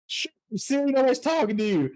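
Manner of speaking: put-on high, loud grumpy old man. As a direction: grouse at Siri like a crabby old-timer. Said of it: "when I do the old man voice".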